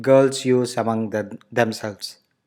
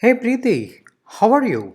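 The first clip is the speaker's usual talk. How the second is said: excited greeting; 8 semitones higher than usual. Acted. Acting a friend greeting.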